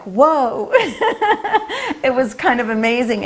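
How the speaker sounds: amazed laugh breaking through the words. Real, not acted. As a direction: laugh it off in disbelief. We were all laughing.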